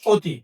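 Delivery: অতি with the first vowel rounded like "o"; closed অ sound. Shown as a demonstration. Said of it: "অ কিভাবে ও এর মতো উচ্চারিত হয়".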